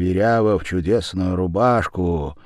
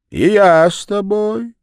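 голос Верявы; 12 semitones higher, 8 dB louder than usual. A narrator's reading. Верява напрашивается в попутчицы.

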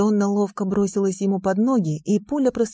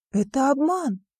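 higher, indignant cry of a woman; indignant exclamation; 7 semitones higher than usual. A narrator's reading. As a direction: call out the cheat. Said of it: "воскликнула Донна".

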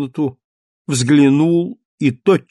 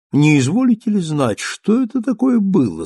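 polite; 7 semitones higher than usual. Acted. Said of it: "спросил он учтиво".

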